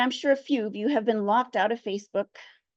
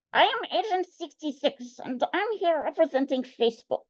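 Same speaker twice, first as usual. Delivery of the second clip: put-on weak Russian accent; 3 semitones higher than usual. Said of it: "not speaking in a better Russian accent".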